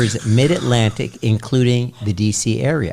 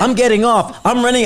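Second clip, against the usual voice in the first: panicked texts; 11 semitones higher, 4 dB louder than usual. Retold or imitated. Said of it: "she goes".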